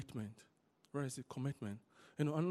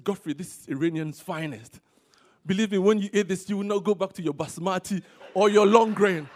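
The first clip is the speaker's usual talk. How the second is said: excited boast; 4 semitones higher, 15 dB louder than usual. Retold or imitated. Pastor voices Rashid's offer.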